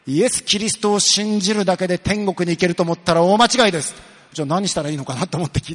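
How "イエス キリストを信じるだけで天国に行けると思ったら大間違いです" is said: mock stern preacher. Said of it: "ものすごい怖い顔してね".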